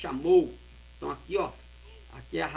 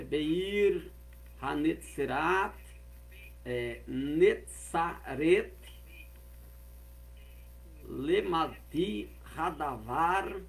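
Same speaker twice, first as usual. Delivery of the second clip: slow Hebrew verse reading; much slower than usual. Shown as a demonstration.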